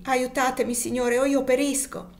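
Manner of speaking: a pleading cry to Jesus, slowing at the end; desperate cry to heaven; anguished exclamation. Acted. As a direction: call out to God in despair. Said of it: "esclamò egli".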